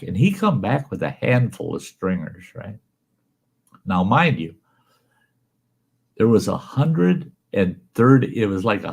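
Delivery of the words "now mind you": confiding whisper; whispered aside. Real, not acted. Teller confides an aside to his audience, whispered. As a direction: lean in and whisper it.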